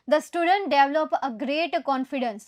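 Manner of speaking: slow, word by word dictation of the sentence. Shown as a demonstration. Teacher dictating the next sentence, very slow. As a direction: read it out slowly for students to copy. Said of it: "એના પછીનું sentence જોઈએ".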